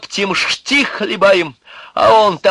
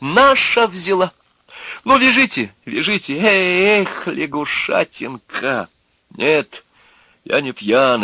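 high, loud defiant tirade; mocking outburst, sliding into insults; exclaiming; 7 semitones higher, 4 dB louder than usual. A narrator's reading. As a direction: harangue your captors at a raised pitch. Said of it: "воскликнул он".

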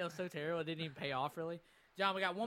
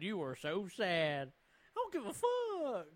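slow, drawn-out mock teacher voice; imitating the teacher; slower than usual. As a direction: drag it out like the teacher. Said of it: "And he said".

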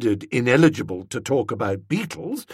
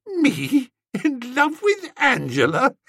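incredulous scoff; 11 semitones higher, slower than usual. Acted. Bertie mocking Tuppy's accusation.

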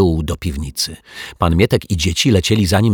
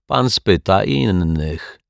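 slow, unbothered murmur; smug rival murmuring without interest; phlegmatic mutter; slower than usual. Acted. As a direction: toss it off slowly, couldn't care less. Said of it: "mruknął flegmatycznie Martwiak".

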